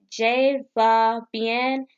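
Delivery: very slow learner French "Je va bien". Shown as a demonstration. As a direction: drag out "Je va bien" word by word. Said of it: "In French is".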